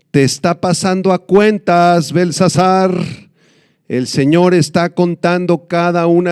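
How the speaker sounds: preaching. Acted. Preacher confronting Belsasar, fervent sermon voice. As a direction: press the king hard with the verdict.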